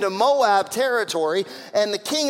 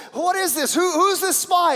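angry king; 9 semitones higher, 4 dB louder than usual. Retold or imitated. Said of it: "He said".

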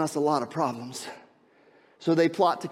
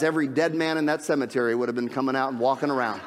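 laughing; 4 semitones lower, faster than usual. Real, not acted. The quoted joke lands.

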